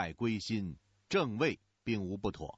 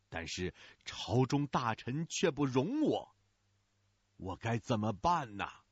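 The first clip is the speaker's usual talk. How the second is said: 低沉缓慢的悲叹; 跪地向先皇倾诉委屈，慢而沉; 悲切哭诉. A narrator's reading. 跪向北方对先皇哭诉. (低沉缓慢地悲切诉说)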